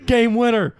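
high, building play-by-play shout; excited sports announcer. Acted. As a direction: call it like a game-winning moment. Mimics March Madness game commentary.

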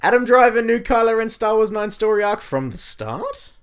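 loud, high rushed announcer read; punchy news headline in one breath; fast headline read. Real, not acted. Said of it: "You read that bit fast".

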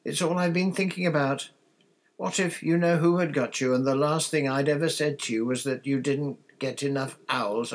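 high, loud, distraught outpouring; starting to sob. A narrator's reading. Mother confessing her fears to the twins, starting to sob. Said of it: "starting to sob".

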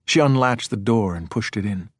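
ordinary delivery

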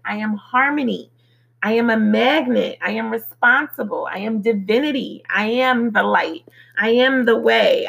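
measured, evenly spaced affirmations; affirmation recital. Real, not acted. Reciting a list of "I am" declarations to listeners, affirmation recital. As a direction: recite each declaration as its own complete statement.

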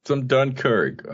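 a slow, grand announcement of the movie name; mock dramatic echo. Co-host echoing the film title for effect, drawn out slowly. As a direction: draw it out slow and high, savoring the title.

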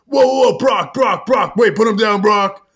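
urgent shouted plea, easing off at the end; Triple H. Retold or imitated. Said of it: "And Triple H is like".

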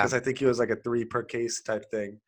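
talking around a cough drop; words slurred by a lozenge; cough drop in mouth. Real, not acted. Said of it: "I have a cough drop in my mouth".

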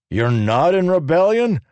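high, loud indignant challenge; demanded. A narrator's reading. Human man angrily challenging Leshwi. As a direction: throw it back as an accusation. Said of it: "one of the men demanded".

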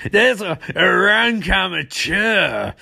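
slow, hammed-up indignant villain; pissed off. Villain sneering at a rival, mock pissed off. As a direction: draw the words out in mock outrage. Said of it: "Mark Hamill's pissed off".

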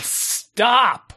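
high, sharp retold order; emphatic final command. Coach to a player who wasn't listening, emphatic command. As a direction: cut through with one urgent word. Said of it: "I said it several times. And then finally".

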